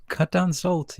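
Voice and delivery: high, squeaky mock of the advice. Mocking the salt advice in a silly high voice. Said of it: "just like this".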